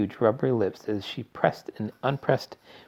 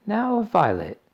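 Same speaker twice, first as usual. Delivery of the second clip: fussy mother voice; 12 semitones higher, slower than usual. A narrator's reading.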